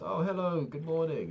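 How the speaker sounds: high, chirpy mock greeting from the desk lady; imitating desk lady. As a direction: play the overly sweet airport clerk, pitched well up. Airport desk lady greets him.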